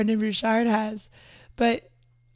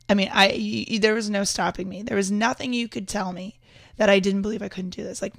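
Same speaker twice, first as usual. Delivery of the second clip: usual speaking voice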